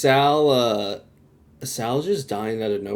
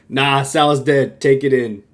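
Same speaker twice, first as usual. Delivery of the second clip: deadpan quote; 2 semitones higher, 7 dB louder than usual. Retold or imitated. Quoting Oz on the phone.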